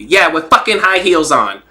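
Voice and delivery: lightly voiced boxer's retort; Rolly. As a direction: imitate a fighter's snappy comeback, only slightly put on. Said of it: "the way he snapped it".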